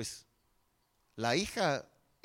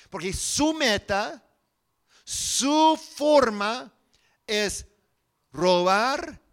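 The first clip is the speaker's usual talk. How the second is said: emphatic, louder and higher preaching; prédica enfática; 5 semitones higher, 6 dB louder, slower than usual. Acted. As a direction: drive each phrase home to the congregation. Preaches at full force. (predicación con voz alta y enfática)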